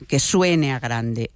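drawn out slowly so it sounds big. Shown as a demonstration. Host shows a word said to match its meaning, slowly. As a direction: stretch it out to sound grand. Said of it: "no es lo mismo decir grande".

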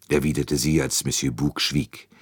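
ordinary delivery, nothing marked

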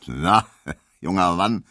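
hearty, gruff man's call; rough-chested master. A narrator's reading. Burly master calling barber from the doorway, gruff. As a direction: boom it out from a big chest. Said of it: "mit seiner rauen deutschen Männerbrust".

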